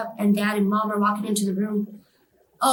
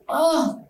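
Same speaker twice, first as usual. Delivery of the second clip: blinded cry; 7 semitones higher than usual. Retold or imitated. Re-enacts being blinded by light.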